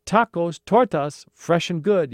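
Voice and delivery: high, loud hawker's call; vendor's yell. Acted. Another street vendor selling tacos, yelled. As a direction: sing out the wares to passers-by. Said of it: "yelled another".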